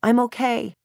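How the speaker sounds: high, tearful narrated sob; upset, crying reassurance; sobbing. A narrator's reading. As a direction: choke it out through tears. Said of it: "I sob".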